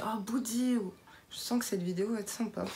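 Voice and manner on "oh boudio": drawn-out mock "oh no"; mock dismay. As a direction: exclaim as if coffee just spilled, lightly acted. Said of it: "j'ai renversé, euh, mon café, je dis".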